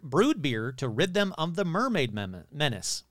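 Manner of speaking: tripping over the words mid-read; stumbling on mermaid menace, breaking off at mem-; tongue-tied stumble. Real, not acted. Stumbling while reading the mermaid article aloud. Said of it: "Ooh, that's hard to say".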